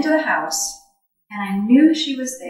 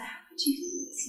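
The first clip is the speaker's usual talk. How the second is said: breathless whisper of dismay; a retold silent plea, whispered; whispered thought; 4 semitones higher, 13 dB quieter than usual. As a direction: whisper it to yourself, pleading. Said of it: "I just thought".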